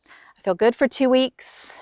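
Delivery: breathy whispered aside, slowed. Real, not acted. Wife after the affair whispers to viewers. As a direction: hush it as if telling a secret. Recalling the good weeks.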